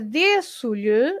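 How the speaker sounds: "agradeço-lhe" stressed as in agradeço, on the e before ço; stress unchanged by lhe. Shown as a demonstration. Teacher answering a syllable question, "agradeço-lhe" with stress on de. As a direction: keep the stress on "de" and add an unstressed lhe. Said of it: "the pronunciation is the same".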